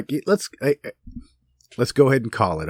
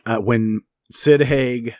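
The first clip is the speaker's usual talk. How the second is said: ordinary delivery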